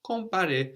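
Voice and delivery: "Compare" high, the m swallowed into the nose; nasal m. Shown as a demonstration. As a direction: soften the m of "Compare" into a nasal vowel. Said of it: "the M kind of gets swallowed into the nose".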